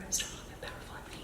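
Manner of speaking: barely audible retold whisper; hushed, tiny, breath-only confession. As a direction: whisper it as a secret into someone's ear. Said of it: "she whispered into my ear".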